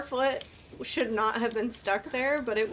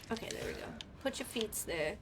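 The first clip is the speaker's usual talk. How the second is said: hushed, focused murmur; whispering to self; 11 dB quieter than usual. Real, not acted. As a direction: whisper while concentrating. Focused careful placing.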